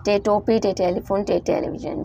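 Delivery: टे with a hard retroflex T, as in Urdu; model pronunciation. Shown as a demonstration. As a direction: say टे टोपी, टे टेलीफोन as the model. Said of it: "आप लोग टे ही pronounce करेंगे".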